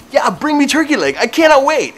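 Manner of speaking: put-on high, loud Russian-accented catchphrase; mock Russian accent. Stranger reading a t-shirt slogan, shouted Russian accent. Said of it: "saying things in that accent".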